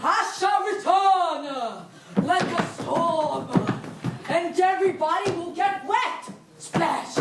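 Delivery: hammy stage actor. Acted. Threatening exit line.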